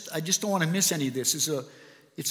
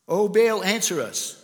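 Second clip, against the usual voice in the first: calling out; 3 semitones higher, 4 dB louder, slower than usual. Acted. Prophets calling on Baal.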